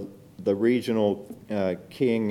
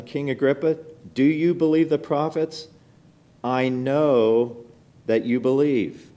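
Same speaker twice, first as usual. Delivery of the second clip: bold appeal; 4 semitones higher than usual. Retold or imitated. Paul boldly pressing King Agrippa to believe. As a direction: put it straight to him, boldly. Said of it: "to him I speak boldly".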